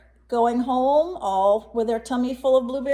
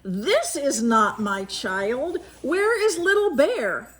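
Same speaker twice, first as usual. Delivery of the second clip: alarmed mother bear; 4 semitones higher, slower than usual. Acted. Mother bear finds wrong child.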